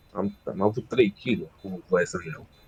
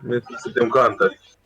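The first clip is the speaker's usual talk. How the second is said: real raised voice, louder toward the end; yelling; 4 dB louder than usual. Real, not acted. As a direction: blurt it out too loud to a teammate. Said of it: "Nu mai urla".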